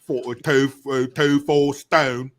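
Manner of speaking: put-on British accent; lightly hammed British voice; mock British accent. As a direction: parody British pronunciation. Parodying British weight units.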